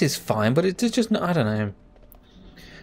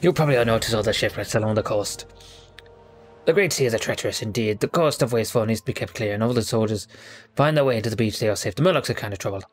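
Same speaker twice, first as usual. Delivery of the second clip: pirate voice; 3 semitones lower than usual. Acted. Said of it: "This is a really terrible pirate voice".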